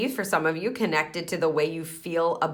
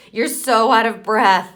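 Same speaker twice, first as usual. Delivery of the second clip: louder, higher, drawn-out mock reproach; scolding inner critic; 5 semitones higher, 8 dB louder than usual. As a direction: imitate a nagging inner voice, slowly and loudly. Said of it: "thought processes that are coming up to try to go".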